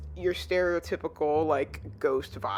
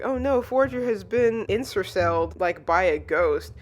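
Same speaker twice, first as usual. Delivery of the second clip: retold alarm; 4 dB louder than usual. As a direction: imitate a worried classmate. Voicing boy alarmed at ghost attack.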